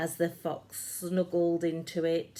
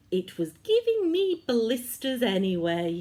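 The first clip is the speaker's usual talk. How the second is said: giant's voice; 6 semitones higher, 6 dB louder, faster than usual. A narrator's reading. George's line, louder and quick.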